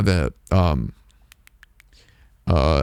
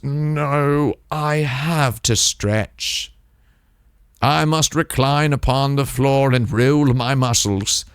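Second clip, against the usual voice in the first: mock diva Mimsy; 3 semitones higher, slower than usual. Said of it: "And she goes".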